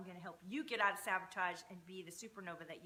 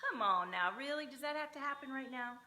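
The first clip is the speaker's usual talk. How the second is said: exasperated; 4 semitones higher, 4 dB louder than usual. Real, not acted. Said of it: "why does that car alarm".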